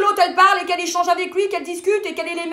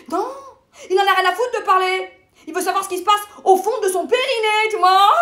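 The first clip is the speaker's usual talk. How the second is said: vehement; 4 semitones higher than usual. Acted. Sermonne son amie sur les hommes.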